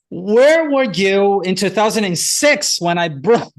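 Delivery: laughing, loud and slow, teasing the past; half-laughing shout of mock reproach; laughing mock protest.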